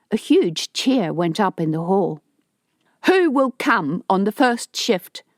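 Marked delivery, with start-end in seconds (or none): 3.1-5.2 rally the crowd with a raised voice; yelled. Acted. Harto yells to the men in the hall, raised call. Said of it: "Harto yelled".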